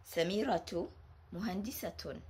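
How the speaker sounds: "Samiratu muhandisatun" with the ta sounded; model sentence. Shown as a demonstration. Teacher reading the example sentence aloud. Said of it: "is an example of ta al-marbuta".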